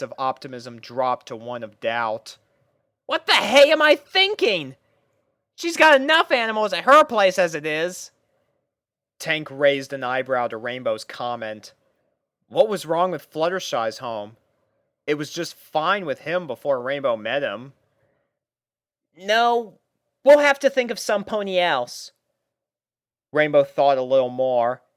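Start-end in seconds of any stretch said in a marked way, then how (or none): 3.1-8.1 higher, louder pony voice, second-guessing; pony voice, self-doubting; Rainbow Dash, doubting herself. A narrator's reading. 19.1-22.1 higher, louder pony voice taking charge; a pony captain lining up her troops; higher pony voice addressing puppies; Rainbow Dash voice, bossy and bright. A narrator's reading. Rainbow deciding.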